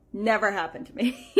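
amused, laughing rise on never. Real, not acted. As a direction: repeat it with a rueful laugh. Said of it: "repeated with a laugh".

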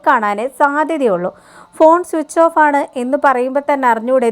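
lightly voiced spiteful aunt, sneering; spiteful gossip. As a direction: sneer at the girl's mother, half-acted. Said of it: "അപ്പോൾ ഹേമ പറയുകയാണ്".

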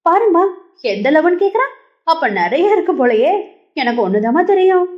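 hammed-up fake grief; fake sadness. A narrator's reading. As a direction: pretend to be wounded while stirring trouble. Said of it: "போலியான சோகத்துடன்".

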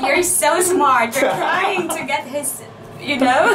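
mock praise through giggles; laughing sarcasm. Real, not acted. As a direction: tease the thief while trying not to laugh. Mock message to phone snatcher, laughing.

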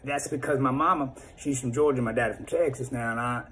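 a hint of a Southern good old boy; Southern accent. Shown as a demonstration. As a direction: lean into a Georgia-Texas twang, lightly. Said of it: "I could go from the South".

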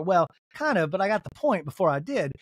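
a hint of Southern lady accent. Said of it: "doing her as a Southern lady".

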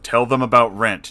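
loud, eager demand; excited insisting. Retold or imitated. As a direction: push it like an excited friend.

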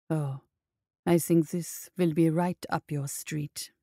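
low, slow, sly gruff voice; grinning. Acted. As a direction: say it with a knowing grin. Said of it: "he grinned".

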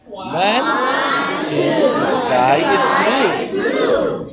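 emoting rhyme. Shown as a demonstration. Teacher asks the group to emote on the rhyme, expressive recital. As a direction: rhyme recited with feeling, blue swooping up high. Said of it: "you emote".

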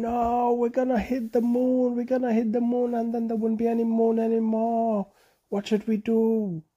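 panicking monkey. A narrator's reading. Bonobo in the rocket to his friends, high and panicked. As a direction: squeal it in a rising panic. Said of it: "And Bonobo was saying".

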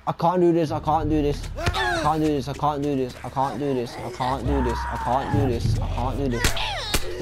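panicked breathless repeating; fading, slowing panicked gasps; hyperventilating. Real, not acted. Panicking in fight.

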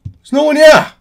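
high-pitched, loud yell; yelling back. Real, not acted. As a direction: shout it back at the screaming character. Yelling back at game character.

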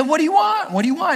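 high-pitched, eager comic questioning; eager king. Acted. King offering Esther a favor, eager. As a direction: ask it high and keen, as the playful king.

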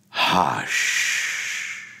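calm the storm with one whispered word; hushing whisper. Acted. Jesus speaking to the storm, gentle whisper.

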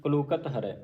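ਕਲੂਕਤ said as one word, no break; joined-up reading. Shown as a demonstration. Teacher modelling how to join it, ਕਲੂਕਤ without a pause. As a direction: run ਕਲੂਕਤ together before ਹਰੈ. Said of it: "ਇਹਨੂੰ ਇਕੱਠਾ ਹੀ ਪੜ੍ਹਨਾ ਹੈ".

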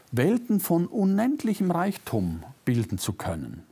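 ordinary delivery

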